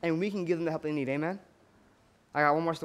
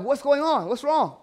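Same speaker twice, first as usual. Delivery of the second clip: higher-pitched worried questioning; alarmed concern; 7 semitones higher, 4 dB louder, slower than usual. Retold or imitated. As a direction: imitate worried visitors asking urgently. Visitors react to crying mother.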